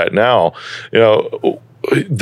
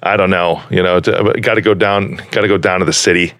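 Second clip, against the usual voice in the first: Chicago accent. Shown as a demonstration. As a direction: chat like a nasal Chicago native. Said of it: "everybody gets a little bit more nasally".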